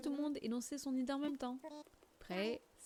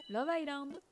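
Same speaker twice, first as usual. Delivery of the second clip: higher, louder proud announcement; excited announcement; 5 semitones higher, 5 dB louder than usual. Real, not acted. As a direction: proclaim it proudly. Announces the winning name.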